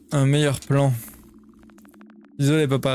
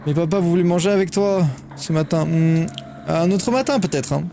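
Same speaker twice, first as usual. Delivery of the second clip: higher, caring mother reading; mother character; 4 semitones higher than usual. Acted. The mother sends her son off to school, higher and caring. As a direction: read it as a fussing mom.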